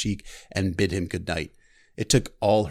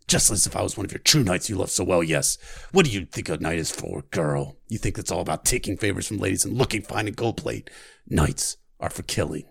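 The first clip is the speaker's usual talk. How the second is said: practiced Hound voice; 2 semitones lower, 3 dB quieter than usual. Acted. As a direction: relish every cruel word. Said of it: "I practiced the voice".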